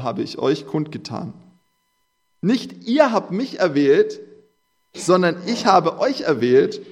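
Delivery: preacher lifting the verse to the congregation; solemn scripture reading. Acted. Long Bible passage read aloud.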